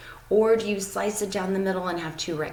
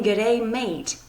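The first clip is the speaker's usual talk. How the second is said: lightly Australian-accented greeting; a hint of Australian accent on the greeting; 3 semitones higher than usual. Shown as a demonstration. Teacher showing what the trick sounds like, light Australian accent. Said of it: "with an Australian accent".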